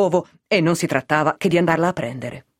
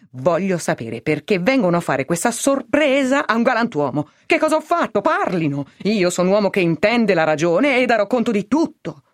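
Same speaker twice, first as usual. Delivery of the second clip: higher-pitched, mildly acted indignation; indignant protest; 4 semitones higher than usual. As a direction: protest your innocence, demanding answers. Arrested man protests to officers. (protesta indignata, recitata con misura)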